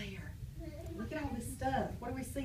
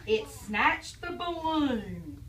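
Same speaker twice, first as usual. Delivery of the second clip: put-on reading to children; 3 dB louder, much slower than usual. Reading story aloud.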